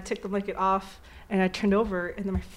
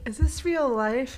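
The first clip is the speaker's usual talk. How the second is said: slow, slightly higher imitation of a dazed kid; Dave After Dentist; 4 semitones higher, slower than usual. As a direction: mimic a confused little boy on laughing gas. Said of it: "really wheezy and, like, confused".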